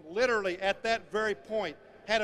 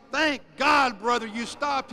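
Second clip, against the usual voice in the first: relieved farmer; 2 semitones higher, 7 dB louder, slower than usual. Acted. Farmer thanks driver after chase.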